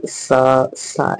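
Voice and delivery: सा hissed with the teeth shut; closed-teeth sa. Shown as a demonstration. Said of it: "ऐसे नहीं पढ़ना".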